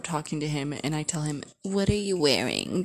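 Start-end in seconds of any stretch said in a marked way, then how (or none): 1.6-2.8 lightly put-on flirty question, swung up at the end; flirty phone voice.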